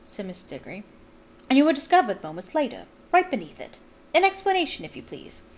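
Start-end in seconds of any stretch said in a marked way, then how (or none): 1.5-5.4 fast, pressing, higher voice; stern official. A narrator's reading. Diggory interrogates Winky, stern and pressing. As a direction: bear down on the trembling elf.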